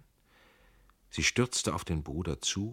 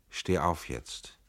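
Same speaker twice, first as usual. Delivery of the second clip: unfriendly command; slower than usual. Acted. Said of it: "rief er unfreundlich".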